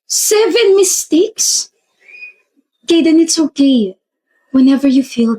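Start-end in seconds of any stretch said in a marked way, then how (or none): 0.1-1.7 higher, slow disbelief. Acted. Repeats the score higher.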